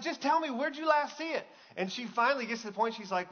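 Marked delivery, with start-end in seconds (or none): 0.0-1.5 high-pitched, pleading urgency; anxious dad. Retold or imitated. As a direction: imitate a dad pressing his daughter for help. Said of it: "He's having that anxiety".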